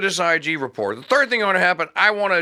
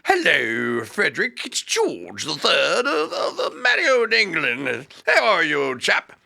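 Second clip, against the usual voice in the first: mocking King George wheedling Frederick in an English accent. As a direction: ham up a posh English monarch. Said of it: "sending letters going like".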